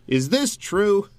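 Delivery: high, slow incredulous question; mayor voice. Acted. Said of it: "I'm gonna do the whole scene here".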